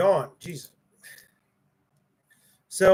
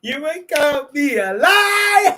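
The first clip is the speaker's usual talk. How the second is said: louder, laughing through the words; laughing shout; 9 semitones higher, 8 dB louder than usual. Real, not acted. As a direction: laugh it out loud. Gloating at chat.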